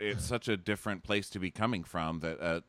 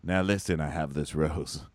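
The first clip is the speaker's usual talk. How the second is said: low, slow mock-serious voice; slow and weighty, imitating her serious talk; 6 semitones lower than usual. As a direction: put on her grave, deliberate voice. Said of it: "she was using her, like, serious voice".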